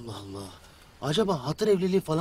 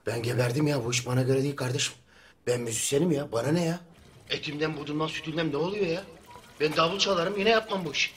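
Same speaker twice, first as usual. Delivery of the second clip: pa system; 5 semitones lower, 4 dB quieter than usual. Acted. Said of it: "Mikrofonu kapatmayı unuttu".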